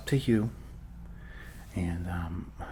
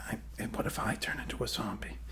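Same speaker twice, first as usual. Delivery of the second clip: hushed, voiceless aside about turning zombie; whispered aside; 9 dB quieter than usual. Acted. Doctor whispering a worried joke to himself, hushed aside. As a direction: drop to a secret whisper for the joke.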